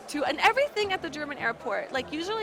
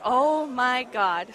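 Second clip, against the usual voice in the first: slow, drawn-out groan of disbelief; exasperated; much slower than usual. Retold or imitated. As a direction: stretch it out in despair. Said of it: "And I'm like".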